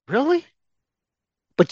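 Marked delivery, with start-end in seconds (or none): 0.1-0.4 sharp high disbelieving "Really?"; incredulous scoff. Real, not acted. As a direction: toss it back with scorn. Scoffing at the racist excuse.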